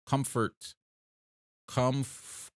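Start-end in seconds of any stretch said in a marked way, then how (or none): 0.1-0.7 "Comfort" said as KUMF-ert, R sounded; sounding it out. Shown as a demonstration. Streamer breaks the word down for chat, sounding it out. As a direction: try "Comfort" slowly, stressing KUMF. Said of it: "It's definitely not comfortable".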